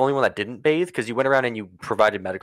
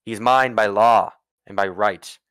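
slow, measured decree; stern ruler, every word weighed; commanding Duke; slower than usual. Acted. Duke forbids touching his prisoner, commanding. Duke lays down law to Junia.

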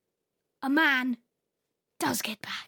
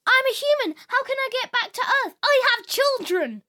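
higher, louder pleading man; desperate plea; 8 semitones higher, 4 dB louder, faster than usual. Acted. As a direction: beg for help, fast. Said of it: "He asked everybody he saw".

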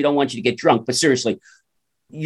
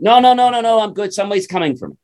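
stubborn refusal; 6 semitones higher, faster than usual. Acted. Stuck man refuses the chain.

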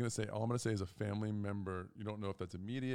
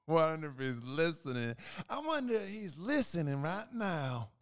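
teasing aside; 6 semitones higher, 4 dB louder than usual. Real, not acted. Teasing aside about teammate.

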